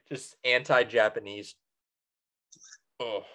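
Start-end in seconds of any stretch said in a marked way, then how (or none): 3.0-3.2 stomach cramps. Real, not acted. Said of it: "My stomach is killing me right now".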